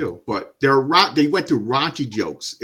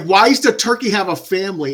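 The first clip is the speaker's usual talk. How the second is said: baffled outburst; 4 semitones higher, 4 dB louder than usual. Retold or imitated. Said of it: "I'm like".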